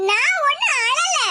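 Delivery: slow protest through held-back laughter; laughing. Acted. Daughter telling her mother she is not crying, laughing. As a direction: insist while trying not to giggle. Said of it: "நான் சிரிச்சுக்கிட்டு".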